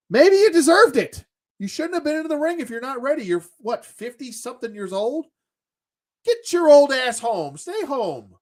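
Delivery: high, loud scolding rant; angry rant. Real, not acted. Ranting at Shane McMahon for getting hurt, high loud scolding. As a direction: tear into him, pitch up and loud.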